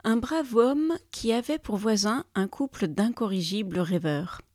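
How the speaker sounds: lively storyteller's reading; story narration. A narrator's reading. Storyteller opens a tale of dreaming neighbours, lively narration. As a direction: open the tale with measured, playful pauses.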